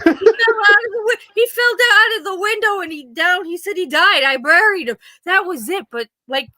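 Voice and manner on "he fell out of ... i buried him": put-on high, small child's voice, matter-of-fact; little boy's voice. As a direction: play the six-year-old brother, flatly calm. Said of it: "And he said".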